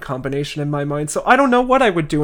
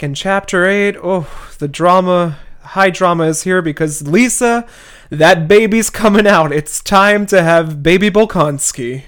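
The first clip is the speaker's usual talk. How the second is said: rising excitement, getting louder; excited; 3 semitones higher, 5 dB louder than usual. Real, not acted. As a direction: build up the drama loudly. Announcing the dramatic birth chapter.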